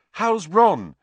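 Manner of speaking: put-on worried, high young voices; anxious children. A narrator's reading. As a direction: ask it urgently. Anxious question from two children.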